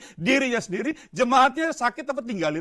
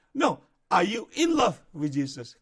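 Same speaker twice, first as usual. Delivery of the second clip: slow repeat with in stressed; 4 semitones lower, slower than usual. Shown as a demonstration. Pastor repeating his question, slow stress on in. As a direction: press in, drawn out and falling. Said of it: "Kan beda ya".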